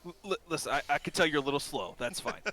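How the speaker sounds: lightly voiced, stammering reassurance; patient shopkeeper. Shopkeep reassures slow brawler.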